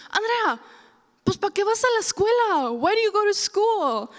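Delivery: high-pitched mock scolding in Spanish and English; exasperated mom. Mom questioning daughter's schooling, high exasperated scolding.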